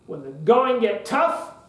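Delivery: slow rising lead-in, left hanging; completion pause demo. Shown as a demonstration. Speaker leading an audience, stops for them to finish. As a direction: draw out "When the going get tough," and lift on "tough" then stop. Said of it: "and you kinda conduct the rest of it".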